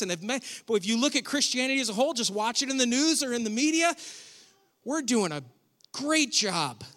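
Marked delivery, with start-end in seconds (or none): 4.8-6.8 thick mock praise, drawn out after a pause; sarcastic. Shown as a demonstration. Preacher mocking how Christians look in the media, sarcastic. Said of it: "You sense my sarcasm".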